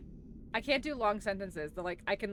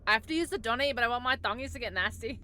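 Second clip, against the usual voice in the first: put-on Australian accent; 2 semitones higher, faster than usual. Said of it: "that absolutely terrible Australian accent".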